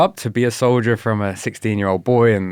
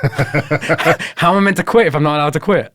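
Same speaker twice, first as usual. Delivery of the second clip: laughing; 7 semitones higher, 6 dB louder than usual. Real, not acted. Laughs at the paradox.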